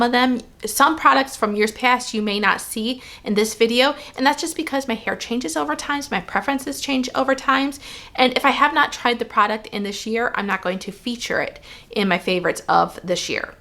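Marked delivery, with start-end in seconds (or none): 4.2-13.5 talking around a piece of gum; chewing gum while explaining. Real, not acted. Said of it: "I do have some gum in my mouth".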